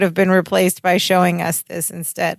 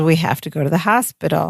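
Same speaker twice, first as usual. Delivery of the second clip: lightly voiced calm announcement; understated, unhurried retold calm; 4 semitones lower than usual. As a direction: say it evenly, slightly low. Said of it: "She says it very calmly".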